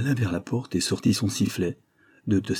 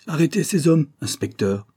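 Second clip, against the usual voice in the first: high, louder command dropping on the last word; gasped order; 7 semitones higher, 3 dB louder than usual. Acted. Exhausted Holmes ordering the inspector to arrest attackers, gasping. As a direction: order it as if winded. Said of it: "haleta-t-il".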